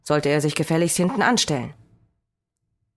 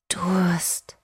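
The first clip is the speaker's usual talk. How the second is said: put-on child's bawl. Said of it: "hörte ich es in meinen Gedanken krakeelen".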